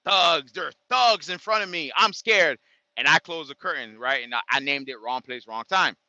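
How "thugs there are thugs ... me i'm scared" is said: mock shocked.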